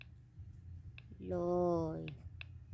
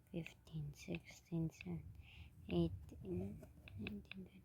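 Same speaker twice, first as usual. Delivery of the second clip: strained counting; 11 dB quieter than usual. Real, not acted. Counting while doing push-ups.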